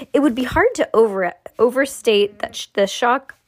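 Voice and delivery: strained, suppressing a burp; holding in a burp. Real, not acted. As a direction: read while swallowing a burp. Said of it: "trying to hold in a burp".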